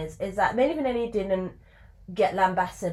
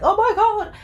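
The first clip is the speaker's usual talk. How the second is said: much higher, louder "Oh my God" through laughter; embarrassed laughing; 14 semitones higher, 7 dB louder than usual. Retold or imitated. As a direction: laugh it out, mortified. Embarrassed backstage after lip-sync fail.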